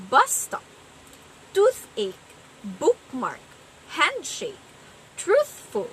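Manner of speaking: "bus stop, toothache, bookmark, handshake, truthful" with both syllables stressed; spondaic stress. Shown as a demonstration. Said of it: "two stressed syllables".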